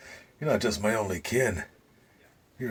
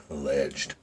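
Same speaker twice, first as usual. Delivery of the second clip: mocking laugh; 7 semitones lower, 6 dB quieter than usual. Mocks the word alleged.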